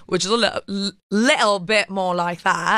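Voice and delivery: Cockney accent. Shown as a demonstration. Actress showing host British accent varieties, Cockney accent. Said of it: "There's Cockney British".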